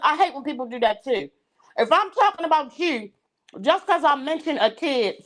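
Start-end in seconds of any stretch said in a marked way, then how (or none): 1.8-5.2 talking with a mouth full of food; words around a bite of food. Real, not acted. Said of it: "I got food in my mouth".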